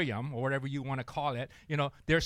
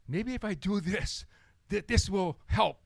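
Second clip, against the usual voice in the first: lightly voiced mouse, a bit higher; hint of a nervous mouse thinking aloud; scheming little mouse; 4 semitones higher than usual. Mouse plotting against the snake, lightly voiced.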